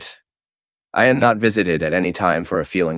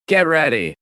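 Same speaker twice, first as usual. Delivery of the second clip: rousing cue; 9 semitones higher than usual. Real, not acted. Preacher cues a high sung line.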